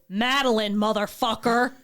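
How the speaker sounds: loud, punched mock comeback; loud retort. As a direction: bark the name back like a dare. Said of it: "do what I just did".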